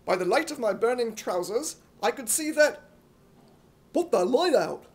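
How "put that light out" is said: loud bark of an order; warden's shout. Acted. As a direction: shout it up the street. Air-raid warden shouts.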